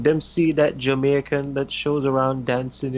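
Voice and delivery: light imitation of a Jamaican accent; lightly voiced Jamaican accent and slang. Teacher asking students about a wrestler, light Jamaican accent. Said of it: "he tried to hide his accent".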